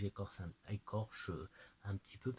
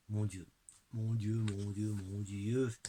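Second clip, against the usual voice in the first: awed exclaim; 5 dB louder than usual. Real, not acted. Awed by the moon god card.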